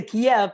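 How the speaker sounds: "Kiev" in two syllables, kee-EV; Russian pronunciation. Shown as a demonstration. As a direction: say "Kiev" with an audible "ev" ending. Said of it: "that was the Russian pronunciation".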